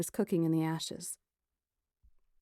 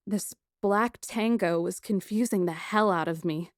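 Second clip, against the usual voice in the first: ordinary delivery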